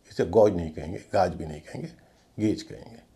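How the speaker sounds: गेज said with an E sound, not गॉज or गाज; gauge said gayj. Shown as a demonstration. Teacher corrects the pronunciation of gauge. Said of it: "जी A यू जी E".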